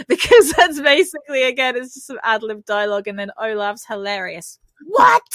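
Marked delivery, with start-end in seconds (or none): 4.9-5.2 high, loud, cartoonish yelp; mock astonishment. Imitating a hilarious cartoon character, exaggerated astonishment. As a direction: burst out high, imitating comic disbelief.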